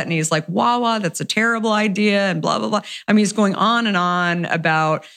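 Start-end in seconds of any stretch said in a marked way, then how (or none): 0.5-2.8 upset dismissal. Retold or imitated. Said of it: "he seemed really upset".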